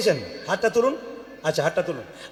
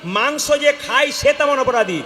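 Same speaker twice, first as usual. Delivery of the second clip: high, ringing scriptural warning; forceful preaching; 3 semitones higher, 3 dB louder than usual. Real, not acted. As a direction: preach a solemn judgement to the crowd.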